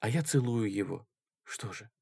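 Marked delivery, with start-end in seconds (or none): none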